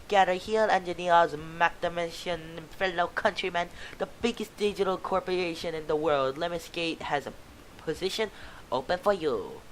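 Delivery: a hint of a carnival barker; booth barker. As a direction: call out the job offer. Booth recruiter pitch.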